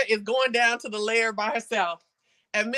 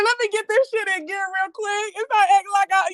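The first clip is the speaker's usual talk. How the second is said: imitating scheming Phaedra; 8 semitones higher than usual. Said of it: "I also think she said".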